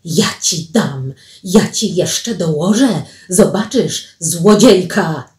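mild, slow threatening yell; man's yell. Acted. Man yells at the fleeing girl, slow menacing threat. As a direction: threaten slowly, building to the last word. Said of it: "doszedł wrzask męski".

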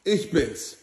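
high, slow villain voice; a menacing cartoon villain, drawn out; Green Goblin voice. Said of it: "der grüne Kobold".

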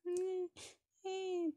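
drawn-out high pretend whine; mock baby cry. Baby doll cries to be handed over, mock whine. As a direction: imitate a fussing baby up high.

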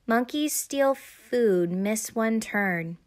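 slow, deliberate game-card reading; measured, drawn-out read-out; reading aloud. A narrator's reading. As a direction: announce it word by word from the board. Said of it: "she read".

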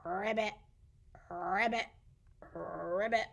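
rolled little frog ribbits; frog croak. Pretend. Playing the frog for toddlers, imitated ribbits.

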